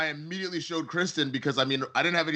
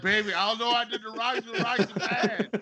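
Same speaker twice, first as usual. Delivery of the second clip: put-on higher, drunken stammer to his wife; drunk babbling; 8 semitones higher than usual. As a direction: slur it like a naked drunk guy. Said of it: "I was like".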